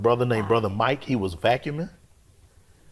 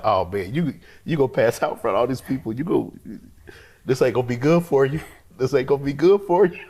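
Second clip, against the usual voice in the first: urgent self-warning; 3 semitones higher, 4 dB louder than usual. Retold or imitated. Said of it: "I'm like".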